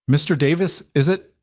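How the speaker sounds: high nervous squeak; squeaky nervous voice. A narrator's reading. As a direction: squeak it out, flustered clerk. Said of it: "Thomas squeaked".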